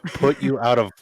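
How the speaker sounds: slow, doleful cartoon dog, lightly done; Droopy dog voice. Co-host practising the requested quote, slow droopy dog voice. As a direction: plod through it like a mopey hound. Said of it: "do the quote in the droopy dog voice".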